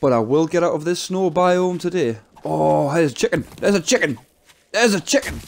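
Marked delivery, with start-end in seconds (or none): 2.4-5.4 excited. Real, not acted. Spots chicken, voice climbing.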